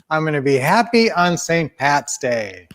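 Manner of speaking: emphatic group recitation, leaning on "happy"; spoken affirmation. Shown as a demonstration. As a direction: declare it for everyone to join in. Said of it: "let's say a good affirmation today".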